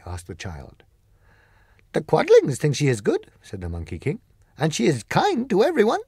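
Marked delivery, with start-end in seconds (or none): 1.9-6.0 high, loud creature voice, firm; polite but final refusal; Monkey King declining, high and loud; Monkey King refusing. Acted.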